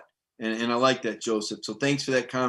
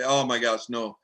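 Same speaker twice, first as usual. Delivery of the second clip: mock dismay; 3 semitones lower than usual. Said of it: "I've heard people say".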